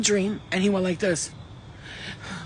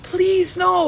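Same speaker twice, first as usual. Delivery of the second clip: high, loud, desperate plea; frightened pleading; 11 semitones higher, 5 dB louder than usual. Acted. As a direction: beg in fear, voice leaping up. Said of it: "another face looking at the devil horns".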